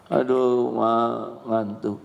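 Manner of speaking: put-on sleepy child whine.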